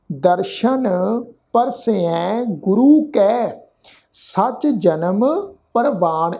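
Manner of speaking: slow, measured Gurbani recitation; scripture recitation. Shown as a demonstration. Teacher recites scripture for the congregation to follow, slow and measured. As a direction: draw out each word, pausing between phrases.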